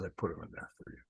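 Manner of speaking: soft, low imitation of sweetness; sweetest voice. Overseer tells him about the flowers, sweetest voice. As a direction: say it softly, as a kindly favor. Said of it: "in the sweetest voice".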